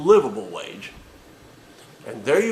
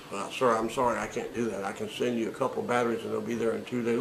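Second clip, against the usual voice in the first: softer, apologetic, hurrying through it; meek agent reply; 3 semitones lower, 6 dB quieter, faster than usual. Acted. Agent apologizing to the angry caller, softly and fast. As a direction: placate quietly and quickly.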